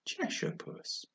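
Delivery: soft, slow and hesitant; timidly greeting the cat, soft and slow. A narrator's reading. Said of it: "she began rather timidly".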